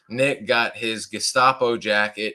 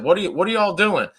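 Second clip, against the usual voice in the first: imitating the gate guard; 9 semitones higher, 4 dB louder, faster than usual. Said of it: "And he said".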